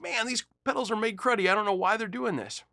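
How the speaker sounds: mock angry. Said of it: "Now I'm mad at the pedal company".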